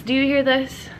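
congested voice from covid; stuffed-up nasal voice; stuffy sick voice. Real, not acted. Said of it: "you can probably hear in my voice".

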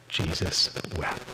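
soft, slow and low; hushed solemn. Real, not acted. Pastor quoting the shortest verse, hushed and slow. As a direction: let the two words fall gently.

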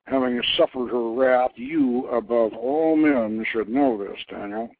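lightly voiced mighty craftsman god, pleased; god Kothor voiced. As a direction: speak as a proud inventor god.

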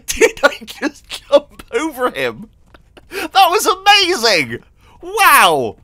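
excited. Real, not acted. Jumps over horse.

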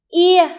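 "Ia" called out high and loud, clearly gliding i to a; model pronunciation. Shown as a demonstration. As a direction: say "Ia" loudly as a model for the class. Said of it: "Lắng nghe cô phát âm". (phát âm mẫu "Ia" thật to, rõ)

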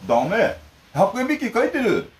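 exaggerated deliberate mom voice; slow mock mother. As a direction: spell it out slowly as the mother. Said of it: "普通聞こえないのよ、私のが".

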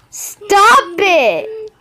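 protesting yell. Pretend. Protesting during play.

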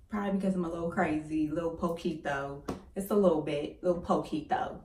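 talking with a retainer in; words slurred by a retainer; wearing a retainer. Real, not acted. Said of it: "I have my retainers in, so if I'm getting stuck on any of my letters".

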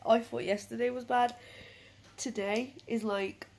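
rough, croaky voice from a cold; husky, hoarse, full of cold. Real, not acted. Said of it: "I sound like a man".

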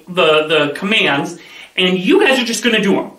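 ordinary delivery

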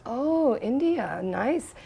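high "oh" sliding down; lightly imitated appreciative teacher; pleased reaction. Guru admiring a gift from India, lightly imitated pleased reaction. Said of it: "He goes".

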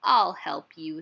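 loud first word, kindly reassurance. A narrator's reading. Badger reassuring worried Hedgehog, mildly kind. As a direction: offer help with a touch of kindness. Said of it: "said Badger kindly".

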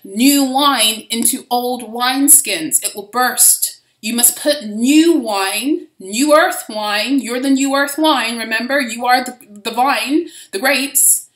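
slow, solemn scripture voice; measured preaching cadence; quoting Jesus. Retold or imitated. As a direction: intone it like a gospel reading. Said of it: "where he says".

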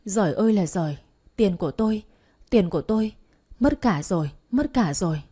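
mildly hammed-up wail over lost money; understated tearful outcry; acted wailing lament. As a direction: lament loudly, as if crying. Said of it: "khóc lóc thảm thiết".

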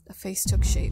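hushed, breathy horror whisper; spooky whispered narration. A narrator's reading. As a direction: whisper it like a secret in the dark. Eerie moment in horror narration.

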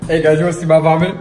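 fast, loud and eager; excited. Real, not acted. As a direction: blurt it out excitedly. Excited showing vomit to camera.

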